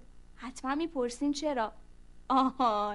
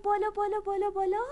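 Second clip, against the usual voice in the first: high, louder climbing words; rising up; 7 semitones higher, 6 dB louder than usual. A narrator's reading. Narrator showing the fly carrying the ant up. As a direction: lift each word higher.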